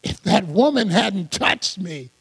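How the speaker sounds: low, soft, regretful excuse-making; murmured fake regret, well below normal voice; mock apology. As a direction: play at a sheepish letdown. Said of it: "Jesus doesn't say".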